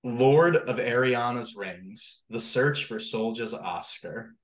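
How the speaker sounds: slow, grand storybook read to a class; storyteller reading. Pretend. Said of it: "like, you're reading to the class".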